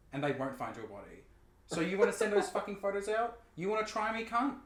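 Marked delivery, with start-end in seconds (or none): 1.7-4.5 loud, high, raging yell; furious shout. Retold or imitated. Firing back at the blackmailer in a loud, high yell. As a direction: scream him down, daring him.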